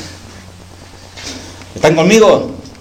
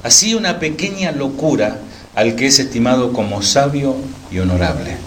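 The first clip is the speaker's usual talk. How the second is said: scripture reading. Acted. Pastor reads scripture aloud.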